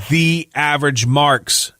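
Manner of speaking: slow deliberate promo code read; slow and careful. Shown as a demonstration. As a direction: spell it out slowly, word by word. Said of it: "No space, one word".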